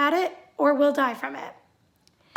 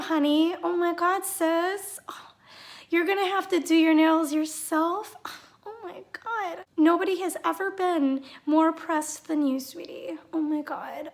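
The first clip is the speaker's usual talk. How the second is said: mock sympathy; 2 semitones higher than usual. Sarcastic pity for Brenda.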